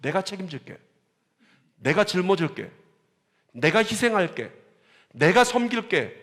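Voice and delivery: Jesus' vow. Retold or imitated. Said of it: "예수님께서 ... 어떻게 하셨죠?".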